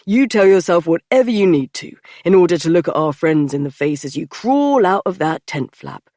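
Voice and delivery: teasing. A narrator's reading. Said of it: "he teased".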